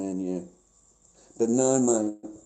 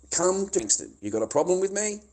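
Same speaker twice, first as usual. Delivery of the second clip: higher, raised voice daring him; angry challenge; 7 semitones higher, 3 dB louder than usual. Real, not acted. Streamer daring the troll to come find him, angry challenge. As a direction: throw down the challenge.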